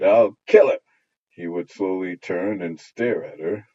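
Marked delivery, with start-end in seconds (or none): 0.0-0.8 put-on loud little girl's threat; childish cry. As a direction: shout it with a raised fist. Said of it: "raised her fist and cried".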